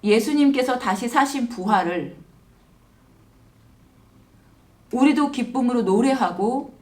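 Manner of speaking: measured prayer with long pauses between phrases; simple, unhurried spoken prayer; leading prayer. Real, not acted. Leads a closing prayer.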